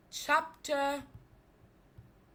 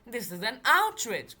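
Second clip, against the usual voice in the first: growled; 4 dB louder than usual. Acted. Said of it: "growled Nellie".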